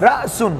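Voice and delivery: "রাসুন" cut by a catch after রা; glottal catch. Shown as a demonstration. Teacher repeats the hamza example, glottal catch in "রাসুন". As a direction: jolt from রা into সুন in "রাসুন". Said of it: "একটা ধাক্কা আসতেছে কিনা".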